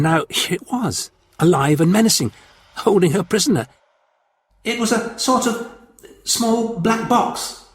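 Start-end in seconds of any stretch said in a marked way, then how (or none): 4.6-7.6 put-on higher girlish voice, vague and slow. A narrator's reading. Frightened girl to the Martian, vague and hesitant. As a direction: Victoria trails off uncertainly, higher. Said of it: "she suggested vaguely".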